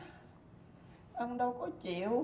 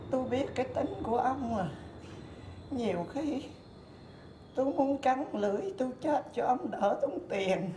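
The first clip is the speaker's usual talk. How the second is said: put-on louder, fed-up old wife airing her grievances; loud exasperated rant; 3 dB louder than usual. Old wife loudly scolding her stingy husband, exasperated. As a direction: let it all out at him, half laughing.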